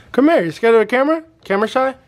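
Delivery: high sweet voice to a puppy; puppy talk. Real, not acted. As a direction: coax her, high and cooing. Coaxing a shy puppy.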